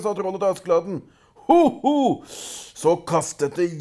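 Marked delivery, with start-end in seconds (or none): 1.5-2.0 high, loud troll roar; troll roaring as it throws the bar; troll bellow. A narrator's reading. Troll hurls its iron bar.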